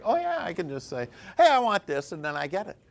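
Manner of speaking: laughing imitation. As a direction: giggle through the quote. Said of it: "you're like".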